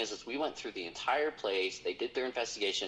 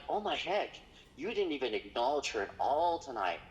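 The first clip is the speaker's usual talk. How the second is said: astonished; 5 semitones higher than usual. Retold or imitated. Speaker scolds the guide.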